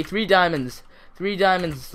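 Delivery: loud, high, thrilled announcement; real excitement, voice lifted; triumphant. Real, not acted. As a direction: crow about a big find.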